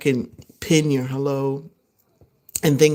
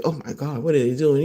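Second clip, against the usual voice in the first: disgusted; 3 semitones lower, faster than usual. Retold or imitated. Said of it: "somebody else might look at them chew and be like".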